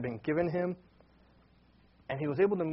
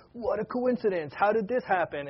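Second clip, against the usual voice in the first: higher-pitched mock amazement; astonished; 5 semitones higher than usual. Brothers marvelling at the seating by birth age, mildly astonished. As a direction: lightly act out naive astonishment. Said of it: "they just kinda were astonished".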